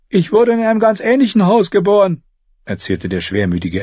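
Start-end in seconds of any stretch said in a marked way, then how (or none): 0.1-2.2 high, whiny gloomy voice. Acted. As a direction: moan it like a glum squire. Gloomy Ed speaks.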